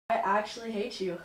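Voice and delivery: laughing. Real, not acted. Laughing while trying not to.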